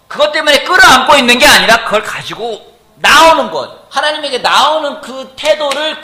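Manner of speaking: loud, high, drawn-out proclamation; full-force preaching. Real, not acted. Preacher telling the congregation what Jesus calls faith, full-force preaching. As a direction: preach it out at full voice, stretching key phrases.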